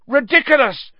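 high, very loud incantation; bellow. A narrator's reading. Pupil casting at the giant spider, bellowing. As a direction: bellow the spell out. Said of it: "bellowed Ron".

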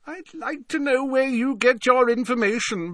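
put-on high, teasing old professor; jovial Slughorn voice. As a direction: wag a finger, playful scold.

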